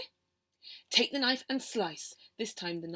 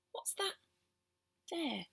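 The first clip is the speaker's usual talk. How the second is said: suspicious; 7 semitones higher, 8 dB quieter than usual. A narrator's reading. Suspicious Mum.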